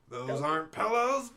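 loud, high shout. Retold or imitated. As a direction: yell it out in disbelief. Movie line shouted back.

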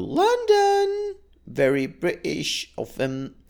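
drawn-out mock British accent; bad English accent. Podcaster joking about his British wife in London, bad English accent. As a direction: put on a slow, hammy English accent. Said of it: "not even a good English accent".

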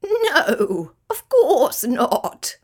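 high, slow cackle through the words; laughing kookaburra. A narrator's reading. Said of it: "laughed Kookaburra".

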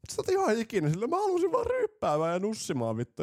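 imitating a fed-up partygoer, high and loud; mock frustrated partygoer. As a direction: whine it high as the fed-up clubber.

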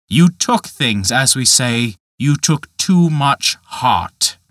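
slow, measured scorn from a lightly voiced giant; a hint of a sneering giant; Dutch Michael, scornful. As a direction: drag out each question with contempt. Michael continues.

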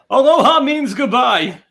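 slow, big broadcaster call; home run call. Retold or imitated. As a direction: belt it like a sportscaster. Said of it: "his home run call".

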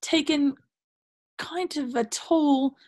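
put-on wobbly British accent sliding toward Australian; mock British, slightly Australian; British accent with Australian tinge. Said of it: "I can hear some Australian tinge in there".

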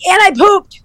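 squeaky high line breaking into laughter; can't hold back the laugh; laughing punchline. Real, not acted. Telling the finish-line friend about pooping, laughing loudly.

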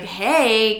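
imitating a snide hey; not that nice. Father arriving to daughter, mock snide greeting. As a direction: say hey like you're trying to needle. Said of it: "not that nice. He's trying to be an asshole".

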